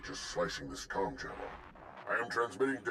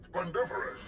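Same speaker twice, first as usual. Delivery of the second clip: delighted exclamation; 10 semitones higher than usual. Acted. Lippy greets good news.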